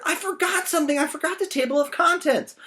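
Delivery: very high, loud, half-laughing wail; panicked Jack. Acted. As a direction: wail over the forgotten contents.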